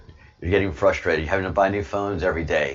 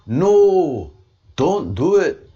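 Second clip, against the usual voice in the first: high, loud drawn-out mock plea; pleading comedians; 10 semitones higher, 6 dB louder, much slower than usual. Comedians begging people not to do accents, mock-pleading. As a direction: wail a hammed-up protest. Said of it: "so many comedians like".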